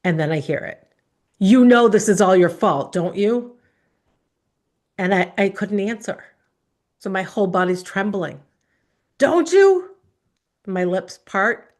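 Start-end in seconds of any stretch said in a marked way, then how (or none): 1.4-3.6 loud, accusing question, voice rising at the end; father's angry accusation. Retold or imitated. Father blaming his eight-year-old daughter, angry loud accusation. 9.2-10.0 much higher, loud shouted question; father's furious demand. Retold or imitated. Father demanding an answer from his crying daughter, furious shout.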